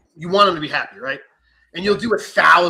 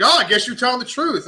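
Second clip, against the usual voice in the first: higher sing-song cop concession; mock cop; 7 semitones higher, 4 dB louder than usual. Cop admits the breathalyzer proves him, mock voice. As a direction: give it like a grudging officer.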